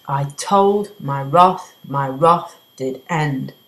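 slow recital, beat on "told", "wrath", "wrath", "end"; walk the line like a heartbeat; iambic beat. Shown as a demonstration. A teacher recites the iambic line with clear beats. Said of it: "So it's unstressed, stressed".

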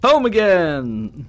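loud, high, drawn-out holler; drunken holler. Acted. Drunk friend arriving home, slow happy holler. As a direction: belt it out, stretching the words.

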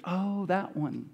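flat, slow and soft, unimpressed; deadpan. Retold or imitated. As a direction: say it dully, like it's no news. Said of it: "No, it's like".

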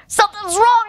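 high, alarmed shout. Acted. Keeper running with arms in air, shouting. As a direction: cry out in panic. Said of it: "he shouted".

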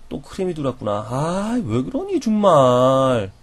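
hushed plaintive commiseration; soft sympathy. Shown as a demonstration. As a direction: share their bad luck. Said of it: "따라해보세요".

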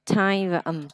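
"time" broken into "tai" and a separate "ầm"; word split in parts. Shown as a demonstration. Teacher splitting the word for learner, segmented sounds. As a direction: say "time" open, then hum "ầm" apart. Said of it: "mình sẽ tách ra ha".

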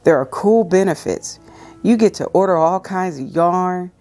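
calm, measured reading aloud; devotional reading. Acted. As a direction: read it gently like a devotional.

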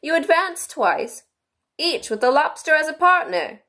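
high, eager Gryphon calling dance steps; excited cry. A narrator's reading. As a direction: call it out high and keen. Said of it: "cried the Gryphon".

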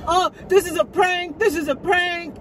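high squeaky voice mocking his reply; squeaky falsetto mockery. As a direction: mimic him in a silly high voice. Imitating his dismissive reply.

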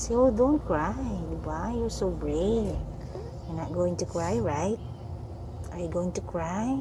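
soft, gentle coaxing; soothing. Real, not acted. Mother asking her child not to cry, soothing.

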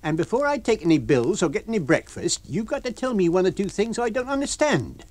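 high, loud landlady building up; Mrs Hall, furious. Acted. Landlady demanding how the lodger got in. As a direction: lay down the house rules.

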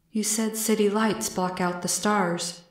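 a hint of an earnest visitor; lightly voiced alien. Alien reasons with Beth about city lights, gently earnest.

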